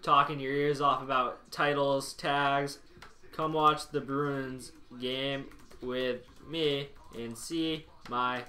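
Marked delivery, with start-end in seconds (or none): 3.3-8.4 slow, low, monotone robot. Acted. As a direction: drone it out like a robot. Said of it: "Talking like a robot".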